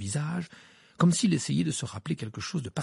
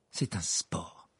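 low, softer, dry retort; Harry's dry retort to his uncle; curt reply; 6 semitones lower, 6 dB quieter, much slower than usual. A narrator's reading. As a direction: cut him off with a dry answer. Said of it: "répliqua-t-il d'un ton sec".

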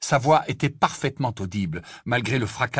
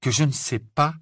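higher, more pointed rising question; incredulous echo; 4 semitones higher than usual. Acted. Harry challenges Ron's accusation, more openly incredulous. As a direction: echo it back in disbelief, pitch lifted. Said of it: "répéta Harry".

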